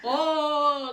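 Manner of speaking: slow words through laughter; laughing. Real, not acted. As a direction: talk while laughing hard. Laughing while talking.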